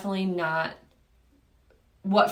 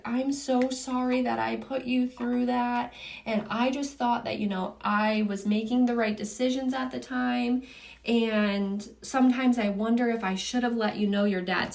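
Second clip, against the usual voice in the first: higher, lightly imitated upset mom; a touch of pleading, pitched up; retold upset apology; 4 semitones higher than usual. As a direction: re-enact a mother's regretful apology, understated. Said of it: "like, really upset".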